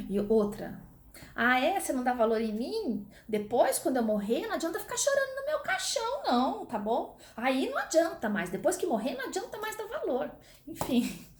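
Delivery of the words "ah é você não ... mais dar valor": hammed-up mom guilt trip, rising much higher; guilt-tripping mother. Teacher playing a mother guilt-tripping her children about her death, mock drama. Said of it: "são frases clássicas".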